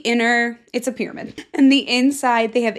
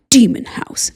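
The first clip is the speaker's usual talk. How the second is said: hushed, breathy whisper for a creepy name; spooky whisper; 4 dB louder than usual. Pretend. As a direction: whisper it like a ghost story. Spooky reading of exhibit name.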